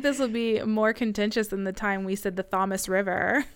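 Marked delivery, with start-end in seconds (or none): 2.4-3.4 "Thomas River" deliberately mispronounced for Thames; deliberate mispronunciation. Shown as a demonstration. Host recalls an on-purpose blunder, "Thomas River" mispronounced. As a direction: say "Thomas" as an ordinary name, not as in Thames. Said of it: "it's not pronounced that way".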